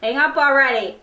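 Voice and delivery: playful lovers' bickering; giggly late night call. Acted. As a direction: tease each other, giggling, neither hangs up. Couple can't hang up phone.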